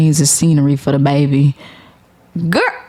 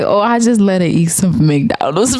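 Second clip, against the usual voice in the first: laughing quote. Retold or imitated. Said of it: "he's like".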